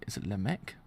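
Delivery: quiet questioning "Lemek"; low, testing rise on "Lemek"; unsure name check. Shown as a demonstration. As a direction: ask "Lemek" softly as if checking. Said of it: "unsure name reading".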